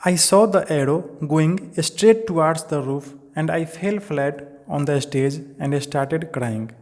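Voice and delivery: slow, deliberate reading aloud to the class; slow textbook reading. Acted. Teacher reading the chapter line to students, slow and deliberate. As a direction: read each English word out slowly for students.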